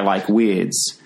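Kiwi vowel in the front of the mouth; a light New Zealand accent. Shown as a demonstration. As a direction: say words the Kiwi way, squeezed in front. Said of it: "talk more through the front of their mouth".

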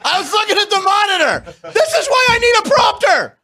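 embarrassed burst of laughter while talking; laughing. Real, not acted. Caught mislabeling the show live.

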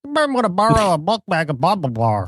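lightly voiced TV host plugging a sponsor; a hint of a reality-show host; mock sponsor read. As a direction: ham up the sponsor catchphrase. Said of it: "walking around going".

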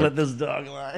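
put-on a good-old-boy Southern accent on the phone. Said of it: "a Southern accent".

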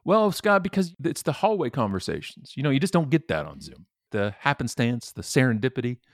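a hammed-up self-satisfied executive; mock CEO. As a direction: parrot the CEO's excuse smugly.

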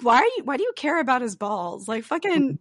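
high, loud, half-laughing disbelief; exasperated laughing. Retold or imitated. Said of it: "I was like".

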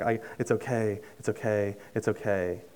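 soft, retold soothing repetition; soothing reassurance. God's repeated comfort retold.

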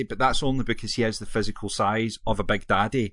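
ordinary delivery

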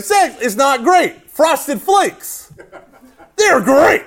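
high, hammed-up nasal slogan; whiny nasal voice. Student announcing to the congregation, whiny nasal voice. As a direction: mimic an awkward announcement in a drawn whine. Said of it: "nasally voice".

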